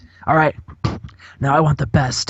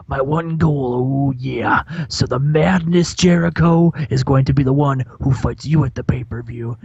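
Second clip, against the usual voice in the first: a hint of Macho Man growl with whispered tags; Macho Man impression. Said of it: "he grabs a microphone, and he says".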